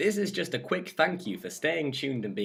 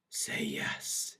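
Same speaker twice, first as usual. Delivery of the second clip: low, hushed, urgent plea; intense, barely voiced entreaty; fervent whisper; 9 semitones lower, 6 dB quieter than usual. A narrator's reading. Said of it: "he whispers fervently".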